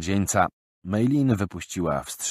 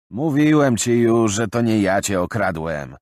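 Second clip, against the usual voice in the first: indignant retort; 4 semitones higher, 7 dB louder than usual. Acted. Accused friend denying the theft to Bill, indignant. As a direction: push back hard at the accusation. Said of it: "żachnął się".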